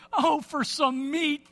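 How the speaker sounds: a lightly voiced complaining crowd; preacher voicing hungry Israelites, mock whine; whiny exclaim. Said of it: "they exclaimed".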